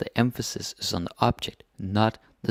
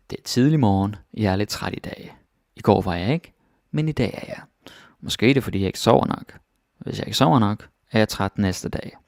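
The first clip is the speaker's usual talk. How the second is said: "Det er tidlig morgen" read at natural speed, a touch louder; fast natural read; 3 dB louder than usual. Shown as a demonstration. Teacher reading the Danish text to students at natural speed, quickly. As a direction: run through the whole passage quickly, like a native speaker. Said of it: "Now that was kinda fast".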